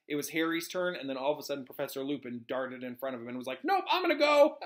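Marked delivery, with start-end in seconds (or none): 3.6-4.6 high, louder jokey voice; hammed-up eager butting in; playful mock protest. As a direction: pipe up comically, on the edge of laughing. Playful paraphrase of Lupin darting in.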